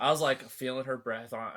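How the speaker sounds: words broken by laughter; giggling through it; laughing while telling. Real, not acted. Retelling the moment, laughing.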